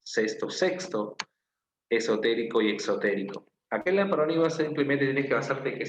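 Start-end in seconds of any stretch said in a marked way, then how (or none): 0.0-1.2 "sexto, sexto" muy despacio, sílaba a sílaba; pronunciación lenta. Shown as a demonstration. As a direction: estira "sexto" dos veces para mostrarlo. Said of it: "Parecida escritura también". (ejemplo dictado despacio de "sexto")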